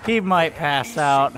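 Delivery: slow, loud, each word weighted; emphatic repeat. Real, not acted. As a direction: spell it out loudly and slowly. Repeats louder and slower.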